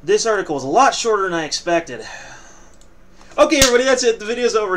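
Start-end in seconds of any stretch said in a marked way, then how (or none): 3.4-4.8 loud. Pretend. Fake sign-off.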